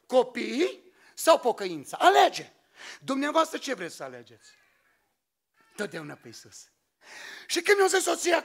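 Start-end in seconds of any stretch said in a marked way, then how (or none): 0.0-2.5 wife forcing a choice on him, sharp and demanding; wife's ultimatum. Retold or imitated. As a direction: hand him the ultimatum, hard on the final word. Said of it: "O zis".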